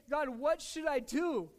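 slow, loud appeal for guidance; crying out to God. Retold or imitated. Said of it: "I'm crying out to you".

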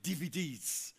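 lightly mimicked kid's sing-song; imitated grandson. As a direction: echo the little boy's way of saying DVDs. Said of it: "He says it like that".

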